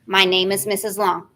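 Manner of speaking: clear, carrying, every syllable enunciated; loud and clear. Shown as a demonstration. Teacher showing nervous students how to say their name, loud and clearly enunciated. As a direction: project it so the judges hear each word. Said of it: "You need to speak loudly and enunciate".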